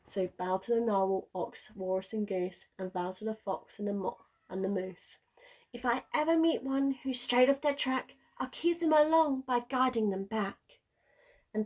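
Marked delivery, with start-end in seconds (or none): 5.7-10.8 Wilf's vow. A narrator's reading.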